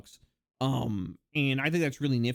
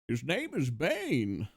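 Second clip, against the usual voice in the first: dramatic reveal; 4 semitones lower, 4 dB quieter, much slower than usual. Acted. Dramatic reveal of dog name.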